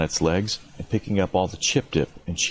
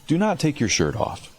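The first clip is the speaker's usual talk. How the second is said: emphatic shout; 7 semitones higher than usual. Real, not acted. Emphatic warning to players.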